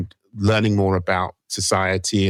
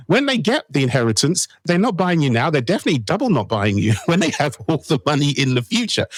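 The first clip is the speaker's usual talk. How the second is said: excited punchline; 5 semitones higher than usual. Real, not acted. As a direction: build up to a gleeful zinger. Punchline about Gen Z wealth.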